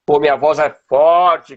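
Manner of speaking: strong voice. Shown as a demonstration. Teacher shows a strong voice, loudly. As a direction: say it strong like a firecracker. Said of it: "que nem o rojão".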